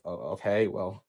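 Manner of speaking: low, worn-out, resigned reply; sounding tired. Retold or imitated. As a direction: say it drained, with no fight left. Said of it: "I was just sounded tired".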